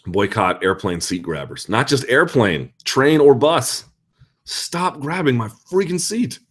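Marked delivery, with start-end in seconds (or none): 1.7-6.4 slow exasperated. Real, not acted. Rant against seat grabbers.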